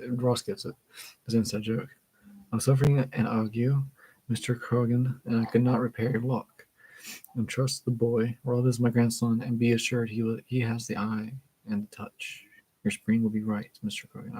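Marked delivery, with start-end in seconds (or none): 2.5-14.4 measured, deliberate reading with little acting; story read-aloud. A narrator's reading. Grandfather vouches for grandson to Mister Krogan, read-aloud narration.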